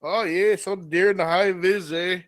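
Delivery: put-on loud, folksy Minnesota accent. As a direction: play it up with a Minnesota lilt. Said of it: "in, like, a Minnesota accent".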